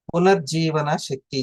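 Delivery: slow deliberate stress on పునర్జీవన శక్తి; spelled out slowly. Shown as a demonstration. Teacher says the term slowly so students can repeat it. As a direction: lay out పునర్జీవన slowly, syllable by syllable. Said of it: "అప్పుడప్పుడు పలకాలి".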